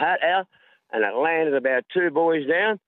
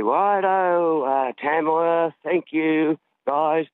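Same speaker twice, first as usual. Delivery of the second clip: put-on American accent; 3 semitones higher, much slower than usual. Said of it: "Yeah, in his accent".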